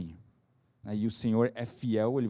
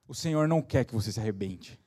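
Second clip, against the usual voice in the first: ordinary talk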